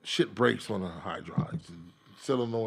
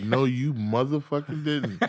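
mock outrage; slower than usual. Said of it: "I was hot".

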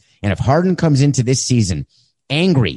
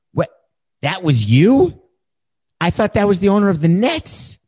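high, loud disbelief; shocked; 10 semitones higher, 4 dB louder than usual. Pretend. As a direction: squeak out the shock. Harden shocked on fake call.

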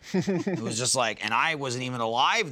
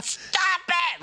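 mock scream. Pestering her while shaking her bowl, mock shriek. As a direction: squeal it high in mock alarm. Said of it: "I'm screaming at her".

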